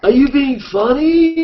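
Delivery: high, slow, drawn-out indignant question; hammed-up indignant tease; mock challenge. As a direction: stretch out the accusation.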